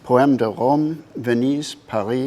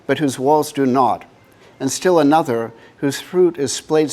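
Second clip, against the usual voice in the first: measured reading in phrases set apart by pauses; poetry reading. Acted. Artist reads the poem at the book's first presentation, measured poetry reading. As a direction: read it as verse, leaning into each phrase opening.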